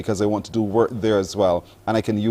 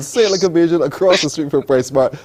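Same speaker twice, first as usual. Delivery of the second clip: playful Bajan local-style directions, louder and higher; 6 semitones higher, 4 dB louder than usual. Pretend. Host teasing guest about local directions, mock Bajan.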